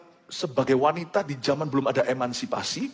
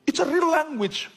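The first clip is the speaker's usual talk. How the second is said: higher, slow, earnest correction from a Korean friend; Korean friend's retort; 10 semitones higher, slower than usual. Retold or imitated. Korean friend corrects the mocking teenager, slow and higher. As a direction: say it as the Korean friend setting you straight. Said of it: "dia bilang".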